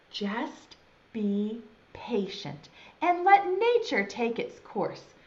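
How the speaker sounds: slow, spaced-out advice; patient counsel. Acted. Friend tells impatient caterpillar to be patient, slowly. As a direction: say it very slowly, word by word.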